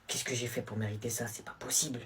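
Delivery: low, soft dejected question; glum complaint. Acted. Student given detention, low glum complaint. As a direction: mutter it low and defeated.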